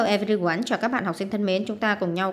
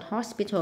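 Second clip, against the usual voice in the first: "hospital" stressed on the first syllable; 3 dB quieter than usual. Shown as a demonstration. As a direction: put the weight on the start of "hospital". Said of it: "âm một".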